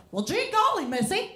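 put-on high, bright old-timey showbiz chirp; gee-whiz musical star voice; 1930s Broadway star. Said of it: "You talk like a nineteen thirties Broadway musical star".

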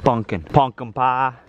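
"Pumpkin" said as if congested; stuffy-nosed "Pumpkin pie"; stopped-up pumpkin. Retold or imitated. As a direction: mimic a child's blocked-nose "Pumpkin". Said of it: "like you're all stopped up".

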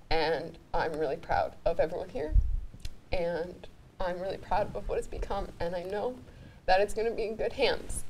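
soft, sincere and proud; heartfelt farewell. Real, not acted. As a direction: hand it over quietly, full of feeling. Heartfelt handover to the cast.

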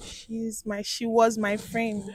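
slow, low, quiet answer; subdued, low murmur; barely audible. Real, not acted. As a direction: admit it softly and slowly. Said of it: "Please, can you be audible?".

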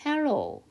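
HELLO drawn out with an o-to-u glide at the end; teacher sounding out "hello"; model pronunciation. Shown as a demonstration. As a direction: say "hello" slowly, ending on "오우". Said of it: "우예요".

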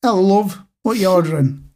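friendly barman asking for an order; barman greeting. Pretend. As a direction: play the pub barman. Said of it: "how about love".

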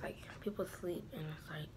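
hushed whisper so sleepers stay asleep. Real, not acted. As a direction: whisper it, unvoiced. People asleep early in morning.

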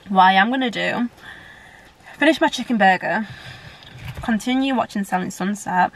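talking through a mouthful of food; mouth full. Real, not acted. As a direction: say it while chewing, mouth full. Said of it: "I know I don't talk with my mouth full".

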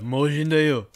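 lightly voiced cute anime girl. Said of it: "Why did you say it like an anime girl".

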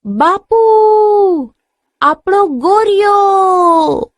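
high, drawn-out cry of discovery; sudden excited scream. A narrator's reading. Daughter calls her father about the lost ox, screaming. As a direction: cry out high, stretching the last word. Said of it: "એકાએક મોટેથી ચીસ પાડી".

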